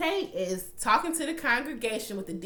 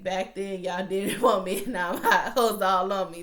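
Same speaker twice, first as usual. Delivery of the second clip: cocky brag; 5 dB louder than usual. Retold or imitated. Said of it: "That was his whole vibe".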